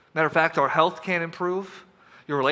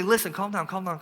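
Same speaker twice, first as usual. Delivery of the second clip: calming down; 5 dB quieter than usual. Acted. Jesus calming worried listener.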